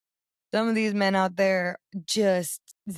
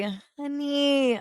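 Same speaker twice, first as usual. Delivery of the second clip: dramatic exclamation; 5 semitones higher than usual. Retold or imitated. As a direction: draw it out high in mock horror. Telling of shock at date's teeth.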